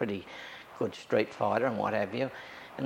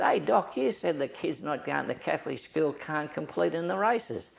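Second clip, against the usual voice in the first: retold challenge, raised voice; mock challenge; 5 semitones higher than usual. Confronting the priest, retold.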